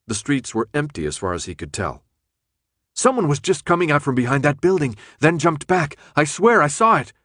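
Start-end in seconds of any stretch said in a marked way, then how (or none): 2.9-7.1 insistent. Acted. Brenda insists she saw someone.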